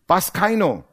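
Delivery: Baskaino said slowly, BAS-kai-no, stress on the first syllable; Greek word Baskaino. Shown as a demonstration. Preacher teaches the congregation the Greek word: careful Baskaino. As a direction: spell it out for the notes: Baskaino. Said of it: "wie man spricht".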